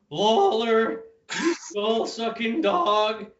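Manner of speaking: Terry Funk impression. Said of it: "I can throw a Terry Funk in".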